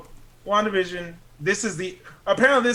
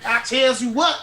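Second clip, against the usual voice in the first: put-on old settler drawl, laughing; 6 semitones higher than usual. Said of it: "old settler voice".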